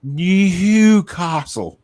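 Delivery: Newcastle very slow, stretched out; slow teaching Newcastle; drawn-out Geordie Newcastle. Shown as a demonstration. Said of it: "You didn't go Newcastle".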